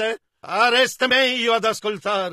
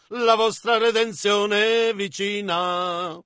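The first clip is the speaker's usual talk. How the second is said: hymn recitation. Acted. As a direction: recite the refrain, stretching each line. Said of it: "Come disse il vecchio cantico". (cantico recitato, lento e cadenzato)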